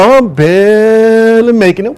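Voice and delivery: slow, droopy imitation of a tired believer; lightly voiced whiner, dragging the words; mock weary Christian. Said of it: "you know how you talk to some Christians".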